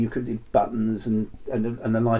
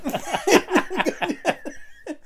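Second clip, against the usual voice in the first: high laugh. Real, not acted. Laughing at own impression.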